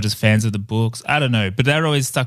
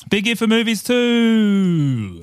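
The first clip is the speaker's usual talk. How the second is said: trailer voice; 8 semitones higher, much slower than usual. Acted. Movie trailer announcer voice.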